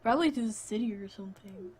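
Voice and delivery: lightly voiced generic guy; a hint of a casual dude character. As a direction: read it in an understated guy voice. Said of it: "this is totally my guy voice".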